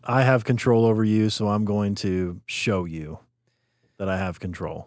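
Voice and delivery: smug cop impression. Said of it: "power hungry, narcissistic".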